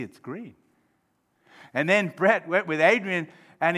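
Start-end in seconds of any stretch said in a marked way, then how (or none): 0.0-0.5 very soft, lower admission; hushed concession. Acted. Friend seeing the other's view, hushed concession. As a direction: concede it quietly, with wonder.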